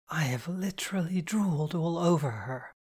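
breathy whispered panic; hushed, appalled inner whisper; horrified whisper. A narrator's reading. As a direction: whisper it, mortified at yourself. Mortified inner thought.

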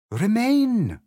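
high, loud drawn-out rallying cry; hedgehog debater. A narrator's reading. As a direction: call out the rival slogan emphatically. Hedgehog counters in heated debate.

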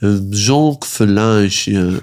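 slow, lightly voiced grand self-introduction; a hint of a stately diplomat's son, drawn out. Imitating a diplomat's son introducing himself, slow and grand. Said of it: "he could have been the son of a diplomat".

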